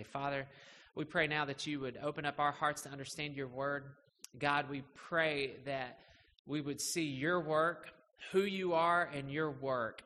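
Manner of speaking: measured, earnest pulpit prayer; public prayer. Real, not acted. Pastor prays before the sermon, public prayer.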